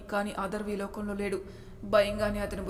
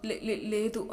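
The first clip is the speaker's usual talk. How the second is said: frightened stammer; slower than usual. Acted. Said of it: "భయంతో చెప్పడం మానేసి".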